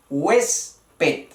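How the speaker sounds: huésped split as HUÉS-ped, stress on the é; teacher sounding out huésped in two beats; syllable demonstration. Shown as a demonstration. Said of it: "E, en la E".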